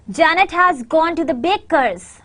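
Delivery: "Janet" and "baker's" stand out, small words lighter; stress on JANET and BAKER'S. Shown as a demonstration. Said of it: "stress on the word Janet and baker's".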